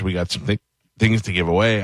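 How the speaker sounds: talking through hiccups. Real, not acted. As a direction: break off with a hiccup. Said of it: "I clearly have the hiccups".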